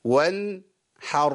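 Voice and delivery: slow وانحر with a measured ن; balanced recited وانحر; medium-length nun. Shown as a demonstration. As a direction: let the ن of وانحر sound briefly. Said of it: "توسط، يبقى أقول إيه؟".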